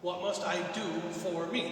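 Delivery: "for me" pressed, ending in a rise; stress on me. Shown as a demonstration. Preacher repeating the lawyer's self-centred emphasis. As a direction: push the weight onto "me" again. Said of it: "Really, the emphasis in the question is".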